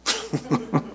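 soft, short chuckle. Real, not acted. Preacher amused by the taxi driver's remark, soft chuckle. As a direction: chuckle quietly to yourself.

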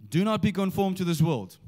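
"Do" hit high at the start, the rest falling away; stress on DO. Shown as a demonstration. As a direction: lean hard on the first word, "Do". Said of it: "change the emphasis on the words".

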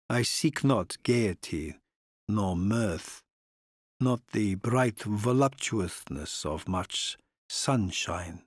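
put-on slow, measured old nobleman; deliberate courtly foreign count. Count speaks of his house.

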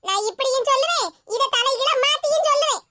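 indignant, defiant retort; mildly angry, standing her ground; a touch of huffy anger. Acted. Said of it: "இவ்வளவு கோவத்துல பேசிட்டு இருக்கா".

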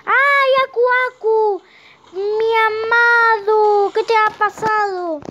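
high, drawn-out theatrical wail; hammed-up grief for a beloved friend; mock lament. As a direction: wail it melodramatically, high and long. Mock lament for lost protector mask.

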